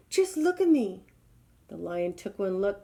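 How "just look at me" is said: high plea; calling out. Acted. Giraffe calling to the lion, high. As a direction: show yourself off pitifully. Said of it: "he called to the lion".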